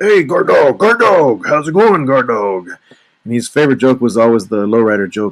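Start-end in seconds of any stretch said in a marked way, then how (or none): 0.0-2.7 rough, rasping, pitched-up voice, "dog" drawn out. Recalling how a joking guy used to greet the speaker, imitating his rough voice. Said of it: "he had this really rough voice".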